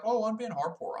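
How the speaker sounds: nasal-free mock begging voice, high and loud; mocking whiny fan. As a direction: mimic a pleading player, hammed up. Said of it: "Some people are like".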